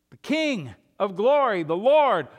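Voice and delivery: loud, ringing announcement; answering the guards with a loud proclamation. Acted. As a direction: proclaim it to the gatekeepers.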